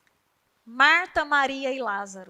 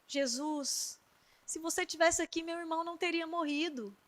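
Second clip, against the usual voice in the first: much softer, hushed and broken with grief; tearful plea; 2 semitones higher, 11 dB quieter than usual. Acted. Maria, weeping at Jesus' feet, pleads in a hushed voice. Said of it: "começou a chorar".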